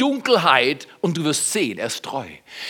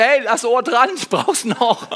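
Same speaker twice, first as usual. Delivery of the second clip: laughing through a mock plea to the barber; half-laughed, a jokey request to keep his ear; laughing joke; 4 semitones higher than usual. Preacher joking to the congregation about his ear, laughing.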